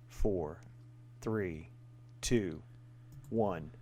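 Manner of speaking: slow, low quiz countdown; exam proctor. Acted. Host counts down quiz timer.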